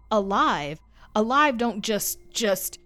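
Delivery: frightened breaking outburst; panicked outburst. A narrator's reading. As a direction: stumble over the words in panic. Boy panics about the dead man.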